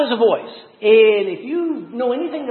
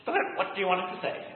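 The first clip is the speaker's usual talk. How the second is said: mock Siri voice; 9 dB quieter, faster than usual. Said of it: "And it goes".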